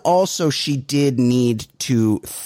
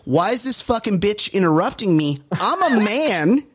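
mock entitled macho; 6 semitones higher than usual. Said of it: "His immediate reflex is".

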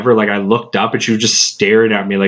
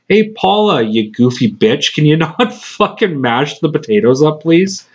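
higher-pitched mock plea, swinging up and down; exasperated scolding; 3 semitones higher than usual. Manager pleading with a coworker about mashed potatoes, exasperated. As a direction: tell off a goofy coworker, half laughing.

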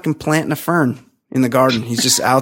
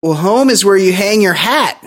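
mock Daniel; 5 semitones higher than usual. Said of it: "And he goes".

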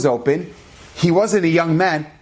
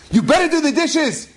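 much higher, scolding threat; mock stern demand; 11 semitones higher than usual. Wife scolding her husband about the dishes, higher and stern. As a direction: lay down the law.

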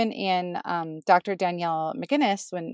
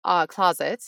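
muffled closet recording; recorded in a small closet; inside a closet; 6 dB louder than usual. Real, not acted. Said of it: "now you're in the closet".

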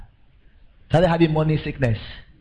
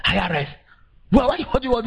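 panicked voice; 9 semitones higher, faster than usual. Retold or imitated. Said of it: "The guy started speaking".

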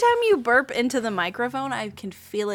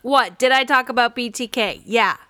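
indignant loud; 3 semitones higher, 7 dB louder than usual. Acted. Mock hearing witness pushing back.

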